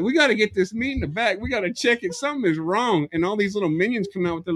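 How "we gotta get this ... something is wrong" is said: raised-pitch urgent call; urgent alarm. Acted. Meat staff rushing to pull the meat, urgent and higher. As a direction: act out worried staff rallying.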